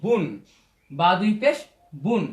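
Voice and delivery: "বুন" said as বু closed with n; tanween pronunciation. Shown as a demonstration. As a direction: spell "বা দুই পেশ", then model "বুন". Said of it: "আমার দন্তন যুক্ত করি".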